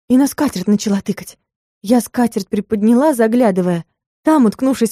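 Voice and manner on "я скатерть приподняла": plain reading voice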